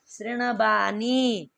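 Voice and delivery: slow शृणवाणी with long vowels and curled-tongue ण; careful retroflex शृणवाणी. Shown as a demonstration. Teacher models what must be said, slow careful शृणवाणी. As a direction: draw out शृणवाणी syllable by syllable. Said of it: "तो क्या बोलना है?".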